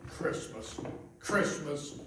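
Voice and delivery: breathy, unvoiced hiss of a single hated word; whispered disgust. Miser whispering the word his clerk just said, in disgust. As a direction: spit the word out under your breath.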